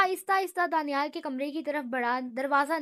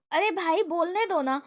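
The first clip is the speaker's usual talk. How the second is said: mildly irritated plea; 3 semitones higher, 3 dB louder than usual. Acted. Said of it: "جھنجھلاتے ہوئے کہا".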